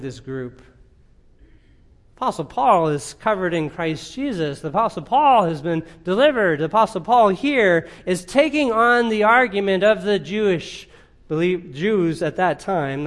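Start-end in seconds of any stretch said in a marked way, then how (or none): 2.2-13.0 raised, insistent preacher's voice; preaching with mounting force; emphatic preaching. Real, not acted. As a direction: drive the point home, louder as it builds.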